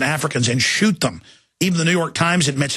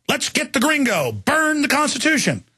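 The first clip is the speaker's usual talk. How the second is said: mock high taunt; 9 semitones higher than usual. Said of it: "It's like".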